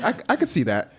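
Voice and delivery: high, laughing through the words; laughing quote. Retold or imitated. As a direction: say it half-laughing. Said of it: "He's like".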